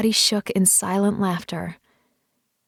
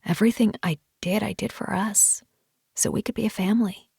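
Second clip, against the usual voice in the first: quick, softer, sincere; earnest; 4 dB quieter than usual. Acted. Husband explaining himself to his wife, soft earnest. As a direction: promise it, quietly and in earnest. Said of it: "his tone was earnest".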